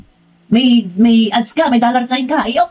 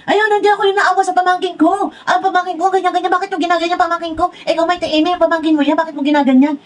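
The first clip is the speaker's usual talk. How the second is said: mock scolding; 6 semitones higher than usual. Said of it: "pinapagalitan mo rin kami".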